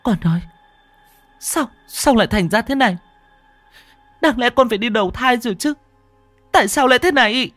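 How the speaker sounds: high, rising anguished cry, quickening; helpless wail. A narrator's reading. Mother crying out to her dead child, high anguished wail. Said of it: "Cô gào lên trong bất lực".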